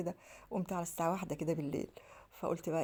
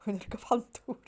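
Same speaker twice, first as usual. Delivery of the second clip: laughing; 5 semitones higher than usual. Real, not acted. Laughing at her own wish.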